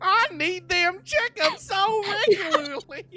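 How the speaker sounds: mocking nasal southern accent. Mocking another speaker's character voice, in a mocking nasal southern accent. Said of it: "Stop making fun of my voices".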